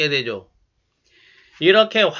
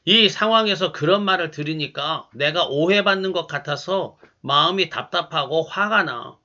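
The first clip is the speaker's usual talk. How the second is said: calm and gentle; 3 semitones lower than usual. Shown as a demonstration. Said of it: "차분하게 이렇게 말해 보시기 바랍니다".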